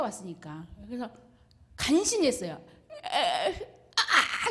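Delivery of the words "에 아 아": a stuck, faltering stammer with a laugh; struggling to speak. Retold or imitated. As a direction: force out the sounds as if your mouth is numb. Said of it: "이런 식으로요".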